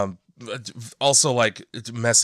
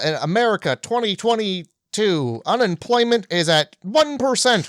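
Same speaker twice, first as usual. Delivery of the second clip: put-on old-timey voice; 5 semitones higher than usual. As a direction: read it like an old announcer. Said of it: "I love that you're doing the old-timey voice".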